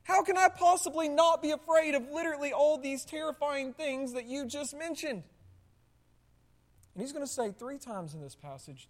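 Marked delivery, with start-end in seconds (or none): 0.0-5.2 high, incredulous plea to Jesus; exasperated question. Retold or imitated. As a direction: ask it in disbelief, pitched up. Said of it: "any rational person right now is going".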